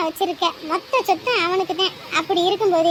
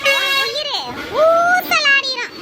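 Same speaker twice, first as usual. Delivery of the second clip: menacing warning; 3 semitones higher than usual. Acted. Threatening the mother-in-law over her daughter-in-law, slow and menacing. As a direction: stretch the last word slowly, like a curse.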